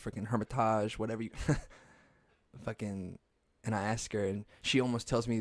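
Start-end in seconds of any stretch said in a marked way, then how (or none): 0.3-1.0 "Hermitage" with a French-style ending, -tazh; alternative pronunciation. Shown as a demonstration. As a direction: say "Hermitage" as her-mi-TAHZH. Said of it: "how do you pronounce this".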